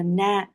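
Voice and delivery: "na" with the a held for two beats; long final vowel. Shown as a demonstration. Teacher showing a line-final syllable, long vowel. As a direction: lengthen the a in "na" at the line's end. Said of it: "nó sẽ đọc dài hơn".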